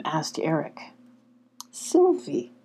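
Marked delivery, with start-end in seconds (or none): 1.7-2.5 whispered. A narrator's reading. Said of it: "whispered the fox".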